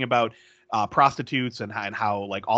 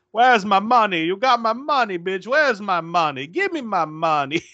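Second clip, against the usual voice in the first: badly acted bully yelling, imitated; mock yelling; 7 semitones higher than usual. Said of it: "a tape of Zorro yelling".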